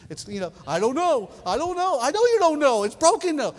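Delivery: put-on high, loud frustrated rant at the teenager; exasperated inner yell. Preacher mock-yelling his thoughts at the punk teenager, loud and high. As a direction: blow up at the punk kid who keeps saying he doesn't know.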